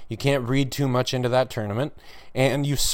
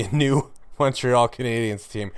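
laughing. Real, not acted. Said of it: "I can't even say that without laughing".

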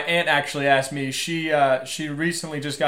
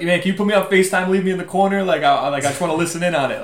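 eager higher voice, a touch louder; excited cousin; 5 semitones higher, 3 dB louder than usual. Retold or imitated. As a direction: beg like an eager fan. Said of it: "He was like".

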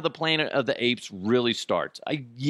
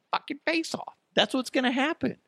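mock panic. Imagined monkey attack, voice cracking up.

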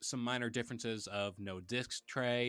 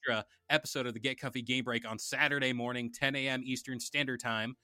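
home shopping host. Acted. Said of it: "Yo, you could be a salesman".

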